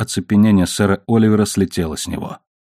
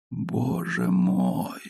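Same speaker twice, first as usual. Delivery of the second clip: slow, much lower and softer moan; low groan; 9 semitones lower, 10 dB quieter, much slower than usual. A narrator's reading. Ruined knight groans in despair at the jewels. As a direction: let it out as a stunned groan. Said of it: "простонал".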